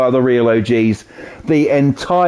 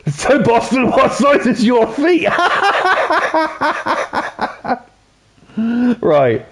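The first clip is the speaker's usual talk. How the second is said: high, laughing question to a viewer; 10 semitones higher, slower than usual. Real, not acted. Streamer to Boston, laughing at a joke. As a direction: giggle through the words.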